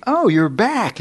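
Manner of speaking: high, sing-out mock greeting; preacher's breezy greeting. Preacher to man waking on the tent floor, breezy greeting. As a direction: imitate someone hailing you as you come to.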